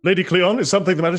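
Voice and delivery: a hint of a worried servant; servant calling. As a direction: call through the door with concern. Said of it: "a servant knocks and says".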